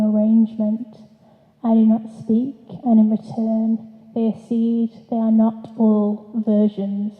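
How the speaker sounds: measured poetry reading voice; poem reading. Acted. Poet reading her poem to an audience, measured. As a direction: read each line as a poem, letting it settle.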